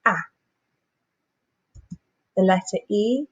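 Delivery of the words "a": short a sound, clipped and clear; isolated short vowel. Shown as a demonstration.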